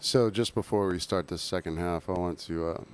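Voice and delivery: slurring a bit, tipsy. Real, not acted. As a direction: speak like you've had a few. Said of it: "'cause I'm very drunk".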